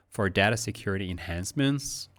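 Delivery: tune lifts on "enhancements"; rise on enhancements. Shown as a demonstration. Teacher shows rising "enhancements". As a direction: end "enhancements" going up. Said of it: "up again with enhancements".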